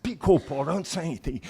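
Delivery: mock panicked warning. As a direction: act out alarm, urging silence. Acted panic at police stop.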